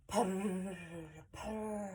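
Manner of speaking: soft rolled purr; cat purring. Acted. Reader shows children a cat's hello, purring. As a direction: trill it softly like a contented cat. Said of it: "a cat hello is prissy".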